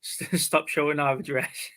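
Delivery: talking through laughter; amused, breaking into a laugh; real laughing. Real, not acted. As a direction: laugh as you slowly get the words out. Laughing at accidentally showing address.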